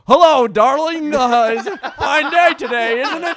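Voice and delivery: high, slow sweet housewife voice; femme fatale. Pretend. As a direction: coo it like a doting fifties wife. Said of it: "straight up like".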